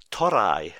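Japanese accent. Shown as a demonstration. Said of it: "my best Japanese accent".

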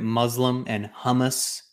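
"Muslim" as MUZ-lum and "hummus" as HUM-us; American pronunciation. Retold or imitated. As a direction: mimic Americans saying "Muslim" and "hummus" with short UH. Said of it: "Americans will say things like".

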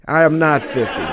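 said through a laugh. Real, not acted. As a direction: laugh while repeating it.

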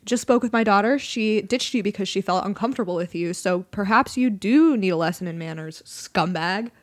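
stern dad. Acted. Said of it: "I'm going to play the part of her dad".

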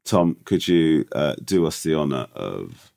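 croaky hungover voice; rough morning-after croak. Real, not acted. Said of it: "what happens to my voice when I'm hu".

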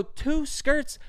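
very high-pitched disbelieving question; retold astonishment, pitch leaping up; incredulous. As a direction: echo it back in high, indignant disbelief. Retelling outraged argument over bill.

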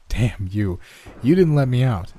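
understated ferocious accusation. Acted. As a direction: snap the last words with mild ferocity. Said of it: "the ferocity in which these last words".

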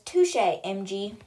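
slow, drawn-out acknowledgement; impressed concession. Retold or imitated. The boy concedes the riddle to Avery, slowly impressed. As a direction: draw it out, conceding the point.

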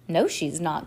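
usual speaking voice

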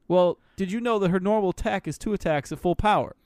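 lightly put-on Boston accent; hint of playful Boston accent. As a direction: say it like a Boston local. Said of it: "like, in a Boston accent".

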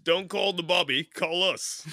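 lightly hammed British accent; mock British accent. Co-host joking to British callers, light mock British accent. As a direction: toss it off as a joking Brit. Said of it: "talk to 'em in their language".

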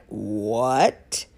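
very low, soft, drawn-out disbelief; incredulous. Acted. Reacting to a friend's cruel self-talk, incredulous. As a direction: drop way down low in stunned disbelief.

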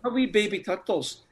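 put-on little high-pitched voice for baby turtles; high cooing voice. Cooing the pet name after host's joke.

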